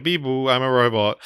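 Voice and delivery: lightly voiced robot, barely changed; a hint of a monotone robot. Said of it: "So he's very robotic".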